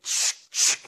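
short, sharp double shh; imitated shushing noise. Preacher mimicking a sound from the missionary story, short hissed shushes. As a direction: hiss two quick shushes.

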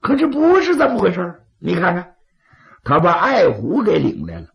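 sly, persuasive schemer; scheming adviser. Acted. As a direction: coax the chiefs toward killing. Scheming adviser speaks to chiefs.

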